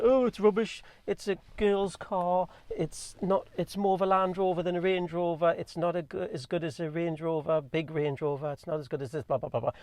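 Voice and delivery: sending up rude YouTube critics in a mocking voice; mocking the commenters. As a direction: parrot the critics in a sneering voice. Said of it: "People are saying things like".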